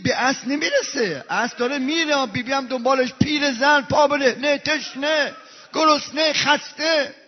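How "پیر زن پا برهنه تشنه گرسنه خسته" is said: grieving list, rising; mourning litany. Acted. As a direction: pile up the suffering word by word. Listing Zaynab's suffering, rising.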